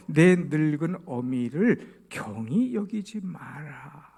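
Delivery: slow, weighty reading of the verse; solemn scripture quote. Acted. 회중에게 성경 구절을 천천히 무게 있게 읽어 주는 설교자의 낭독. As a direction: read the verse slowly, each word deliberate. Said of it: "이십삼 장 이십이 절에 그랬어요".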